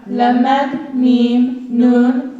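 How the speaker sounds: each letter named slowly and clearly; alphabet recitation. Acted. Student reading the alphabet to the audience, clear recitation. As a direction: read the letters out to the class.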